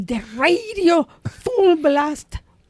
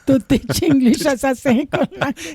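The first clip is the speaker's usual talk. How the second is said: laughing through "To teach English as a second language"; mock the line while laughing; laughing repeat. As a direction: repeat it giggling. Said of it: "se ríen los hijos de puta".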